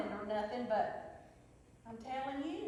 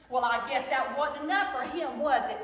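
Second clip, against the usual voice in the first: loud, bitter accusation; riled-up, raised voice; hollering angrily; 6 dB louder than usual. Acted. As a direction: throw it at Ma as an angry challenge. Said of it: "I hollered at Ma".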